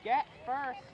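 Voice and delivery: big, high, loud play-by-play yell; excited shout. Real, not acted. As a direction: call the hit like the crowd just erupted. Calling a big hit live.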